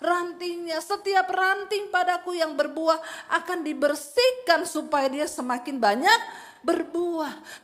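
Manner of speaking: loud, pressing sermon delivery, slowing at the end; forceful preaching. Acted. Pastor proclaiming to the church, loud and forceful. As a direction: thunder the verse at the congregation.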